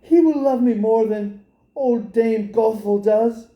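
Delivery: lightly voiced young girl musing; a hint of a hopeful girl; girl's thought. Rapunzel thinking about the handsome king's son, lightly voiced. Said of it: "she thought".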